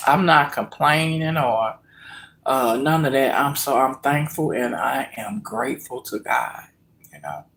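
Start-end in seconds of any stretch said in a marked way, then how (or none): 3.3-7.4 near-whispered, softer thanks; quiet heartfelt thanks to God; hushed gratitude. Real, not acted. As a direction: let it drop to a breathy hush of thanks.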